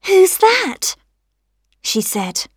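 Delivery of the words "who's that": higher-pitched little rose, questioning; little rosebud calling out. A narrator's reading. Rosebud to a knocker at her door, high questioning voice. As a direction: ask it as a small startled rosebud, pitched up.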